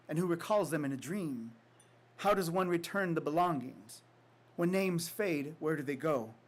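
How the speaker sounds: measured, solemn poem recital; poem reading. Acted. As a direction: let each question hang before the next. Reads a poem before the talk.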